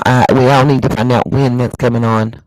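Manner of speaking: muffled, as if through a hand; talking through a covering hand. Real, not acted. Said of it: "Sorry, I'm muffled".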